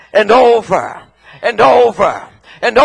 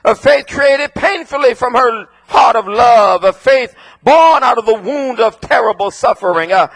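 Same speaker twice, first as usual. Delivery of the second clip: full-force preaching. Acted. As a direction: build the congregation up line by line.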